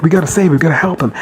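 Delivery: mildly panicked retold plea; freaking out. Agatha urges the others to help save him, freaking out. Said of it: "Agatha's freaking out".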